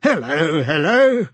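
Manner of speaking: bright, rising hello, hello; jovial hearty greeting; cheery greeting. A narrator's reading. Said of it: "with a cheery".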